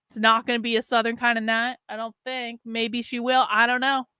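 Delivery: hammed-up Southern accent; bad Southern accent. Streamer teasing a viewer about her Southern alter ego, bad Southern accent. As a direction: put on a clumsy Southern accent. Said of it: "That was a horrible accent".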